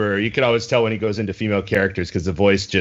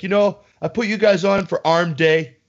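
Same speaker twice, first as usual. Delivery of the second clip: high mock mobster voice; hammed-up Italian mobster gym bro; 7 semitones higher than usual. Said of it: "my guy just sounded like an Italian mobster".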